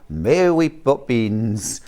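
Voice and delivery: low, slow mock Cockney; Dick Van Dyke. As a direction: drawl it in a bad film Cockney. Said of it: "Dick Van Dyke".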